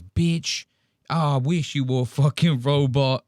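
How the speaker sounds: mock code-switched Black American accent; imitating Andrew Tate. Host shows how he code switched, mock Black American accent. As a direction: lay the Black American accent on thick, mockingly. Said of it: "like he's some black dude".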